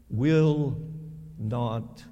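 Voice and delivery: hushed dramatic stress; drawn-out emphasis. Acted. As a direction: punch WILL, drop to a whisper on perish. Preacher stressing verse ending.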